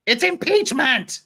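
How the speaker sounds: high, loud, slow insistence; indignant protest. Acted. Lawyer protesting at sidebar, loud and indignant.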